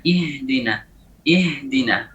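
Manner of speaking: ihdina with a distinct, breathy ha; careful recitation; clear ha. Shown as a demonstration. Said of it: "Harus dijelaskan".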